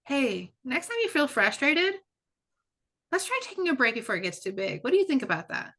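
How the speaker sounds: upbeat parent suggestion; gentle suggestion. Shown as a demonstration. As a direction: invite the child kindly to try a break. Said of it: "you might say".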